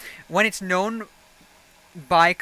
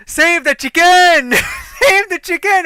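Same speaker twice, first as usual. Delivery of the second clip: imitating French-Canadian supervisor; 11 semitones higher, 11 dB louder than usual. Supervisor yelling in the wind to save the chicken, a high mock yell. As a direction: ham up the panicked boss. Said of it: "the supervisor goes".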